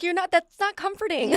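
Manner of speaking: a hint of sobbing complaint; half-crying whine. Retelling crying in car.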